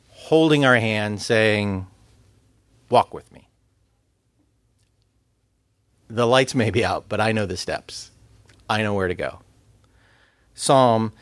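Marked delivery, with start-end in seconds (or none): 2.9-9.4 close, comforting voice. Acted. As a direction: say it gently, as if right beside them. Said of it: "God's voice is the one right beside us".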